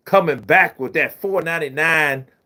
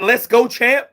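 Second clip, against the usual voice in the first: Shannon catchphrase; 8 semitones higher than usual. Retold or imitated.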